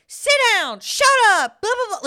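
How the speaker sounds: high, loud mimicked scolding; yelling mom. Mom yelling at her kids from behind, imitated yell. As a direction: yell it like a mother losing it. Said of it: "yelling at her kids from behind".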